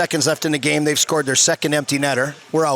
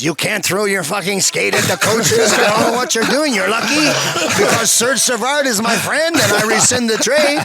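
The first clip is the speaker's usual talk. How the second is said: put-on light French accent; 4 semitones higher than usual. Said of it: "heavy French accent".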